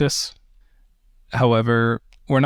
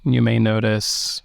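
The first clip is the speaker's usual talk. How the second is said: measured meditation guidance with long pauses; unhurried meditation teacher, phrase by phrase; guided meditation. Acted. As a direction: guide listeners gently into the breath, leaving space between phrases.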